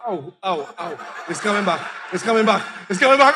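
soft, whimpering moan; mock whimper. Person at home as pain returns, soft whimper. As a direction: groan it quietly in pain.

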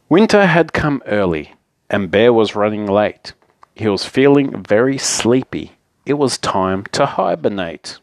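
picture-book narration with lively phrasing; story narration. A narrator's reading. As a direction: read a bedtime story to children. Reads picture book aloud.

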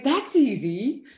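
amused, laughing relief. Retold or imitated. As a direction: laugh off the easy fix. Laughing at the easy answer.

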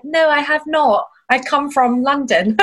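slow, exaggerated proper British accent. Londoner answering a Chipotle server, in very British tones. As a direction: lay the British accent on carefully. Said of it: "I start sounding very British".

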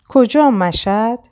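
startled, urgent asking; shocked question. Acted. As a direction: gasp the question out in disbelief. Shocked at Reza leaving.

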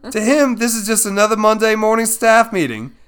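hammed-up Aussie wildlife presenter; poor Australian accent. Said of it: "scream it into the microphone in a poor Australian accent".

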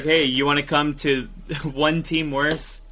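amused pitch, breaking into laughter; chuckling as you make the offer; laughing mock offer. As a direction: laugh your way through a joke invitation. Joking mock offer through laughs.

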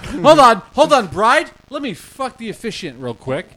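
high, loud fussy bride; shrill-free high panicked bride. Pretend. Mock bride character at wedding.

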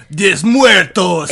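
loud, slow, laughing shout of Des Muertos; mock Spanish shout. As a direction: bellow Des Muertos like a party cry.

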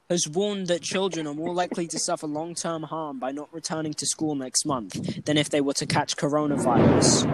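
reading an article aloud; lightly formal news reading. Real, not acted. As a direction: read it out like a news report. Reads out a news item.

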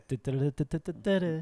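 soft, quick du-du-du patter; rapid-fire vocalised fanfare; mouthed jingle. Pretend. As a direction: echo the little tune on du. Echoes co-host's mouthed tune.

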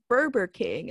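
"Burger King" said as "Burber King"; childhood mispronunciation. Retold or imitated. Retelling her own childhood mistake, "Burger" as "Burber". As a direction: swap the g in "Burger" for a b, no rolled R. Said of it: "So I thought".

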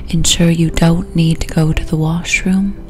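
unhurried relaxation voice with long pauses; guided hypnosis. Acted. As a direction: guide the listener gently down toward sleep.

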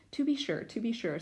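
a flustered little fawn; shy fawn voice. Acted. Fawn voiced in read-aloud.

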